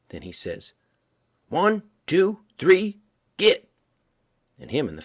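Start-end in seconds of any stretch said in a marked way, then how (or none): 1.5-3.7 loud, high countdown shout; starting shout. A narrator's reading. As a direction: fire off the race start. Smiley starts the frog race.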